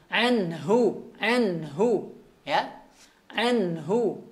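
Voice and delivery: anhu with the nun gently breathed out; tajwid demo. Shown as a demonstration. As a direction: let the breath flow on the n in anhu. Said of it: "huruf nunnya". (anhu, nun dialirkan nafasnya)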